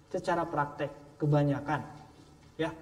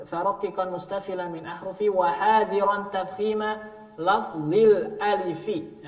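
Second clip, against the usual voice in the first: Arabic verse recitation. Shown as a demonstration. Teacher recites the tajwid verse to students.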